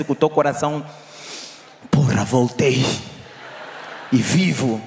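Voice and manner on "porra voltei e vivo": relieved exclamation. Retold or imitated. Pedestrian back home alive, a mock relieved yell. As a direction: blurt it out like you just cheated death. Relief after crossing Angolan street.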